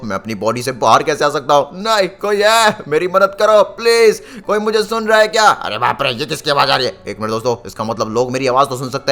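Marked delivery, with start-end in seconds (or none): 1.8-5.5 high-pitched cry for help; desperate plea. Acted. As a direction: call out in panic to anyone listening. Disembodied hero calls for help.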